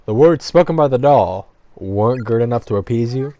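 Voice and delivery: loud, frustrated protest. Real, not acted. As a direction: push back, exasperated.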